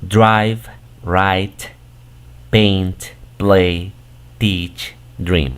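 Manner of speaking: drive, write, paint, play, teach, dream, each said alone with a clear long first vowel; model pronunciation. Shown as a demonstration. Teacher shows learners which vowel is pronounced, careful word-by-word demo of drive, write, paint, play, teach, dream. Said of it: "la primera la vamos a pronunciar".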